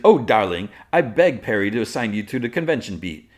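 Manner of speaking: high, loud theatrical "darling" voice; showy reporter. Retold or imitated. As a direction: play a showy colleague, hammed up. Voices showy Cat talking down to Lois.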